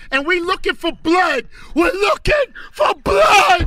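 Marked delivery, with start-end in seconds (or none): 1.7-3.7 hype shout. Real, not acted. DJ hyping rivalry on air.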